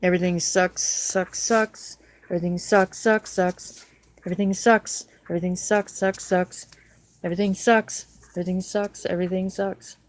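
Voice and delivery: real dejected muttered chant, repeating in short bursts; despairing refrain. Real, not acted. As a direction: repeat it like a hopeless mantra. Despairing repeated refrain after saying life's doomed.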